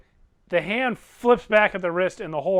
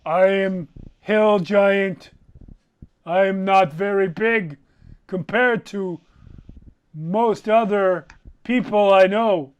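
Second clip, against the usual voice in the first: lightly voiced hill giant. Giant answering Throck in character.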